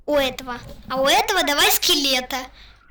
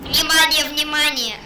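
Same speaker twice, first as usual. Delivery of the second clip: police radio. Pretend. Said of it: "Я буду издавать звуки машин".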